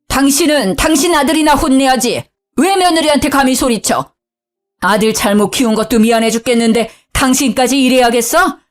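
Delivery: put-on high, raging older man yelling; furious shouting father. Father-in-law yelling at his wife and son in fury. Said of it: "소리를 빽 지르더군요".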